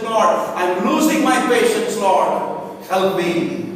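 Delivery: insistent, driving prayer to God; pleading prayer. Acted. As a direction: plead with the Lord, building in force. Acts out a believer's urgent prayer.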